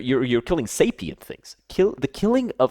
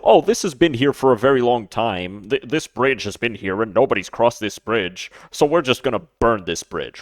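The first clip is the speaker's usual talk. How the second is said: mock thoughtless person. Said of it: "Don't just go".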